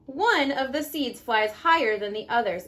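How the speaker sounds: gentle storybook read-aloud; reading to children. Acted. Mom reading The Tiny Seed to her kids, storybook voice.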